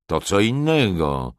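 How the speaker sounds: bezczelna aprobata. A narrator's reading. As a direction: pitch swooping high, then falling. Lord leers approvingly at bride. (przeciągłe, bezczelne uznanie)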